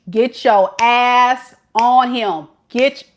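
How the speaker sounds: loud, slow push; firm urging. Real, not acted. Reader ordering Shay to go after him, loud and slow. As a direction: lay it down firmly. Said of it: "urging Shay".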